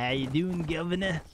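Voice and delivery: jokey put-on Southern US accent; playful Southern greeting. Streamer greeting chat like a Southerner, mock Southern accent. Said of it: "That's like the South".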